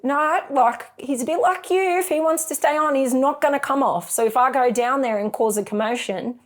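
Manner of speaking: lightly voiced husband talking her down. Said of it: "And he's going".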